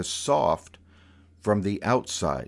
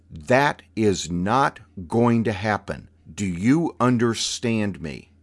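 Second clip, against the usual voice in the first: stern aunt lecture; 5 dB louder than usual. Retold or imitated. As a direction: lay down the law like a stern aunt. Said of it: "The tone of her voice".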